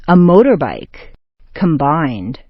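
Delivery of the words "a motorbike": sharp stress on "motor" in "motorbike"; "motor" peaks, "bike" drops away; first noun stressed. Shown as a demonstration. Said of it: "first one is sharply stressed".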